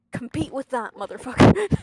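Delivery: very loud playful yell; loud taunt. Real, not acted. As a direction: shout the taunt. Mock trash talk to viewers.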